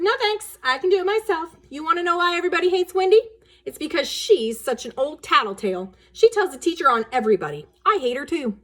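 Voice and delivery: put-on high, loud, fast boy voice; little boy. Little brother tells mother why everyone hates Wendy, high and eager. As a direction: tattle eagerly like a cocky seven-year-old. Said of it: "Timmy said".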